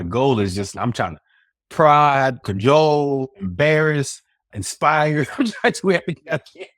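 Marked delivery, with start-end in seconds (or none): 1.7-5.3 each word punched high and loud, with gaps; raised, hammering delivery of each verb; emphatic list. Real, not acted. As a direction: hit "prod, cajole, embarrass, inspire" one at a time. Listing efforts with mounting emphasis.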